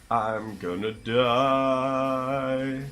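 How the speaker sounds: long, high, loud mock wail; mock doomed wail. Player thinks he will die in game, mock wailing. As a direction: stretch the last word into a hammed-up cry of doom.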